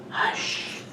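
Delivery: very soft, drawn-out whisper; whispered hush. A narrator's reading. Old lady in a bedtime story, whispering. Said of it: "quiet old lady who was whispering".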